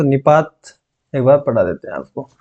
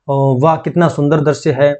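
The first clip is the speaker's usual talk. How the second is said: demo interjections; slower than usual. Shown as a demonstration. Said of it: "इसके चिन्ह होते हैं".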